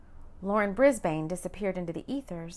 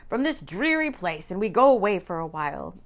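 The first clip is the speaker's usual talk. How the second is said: excited man voice; 7 dB louder than usual. Acted. Rowan proposing trip, excited.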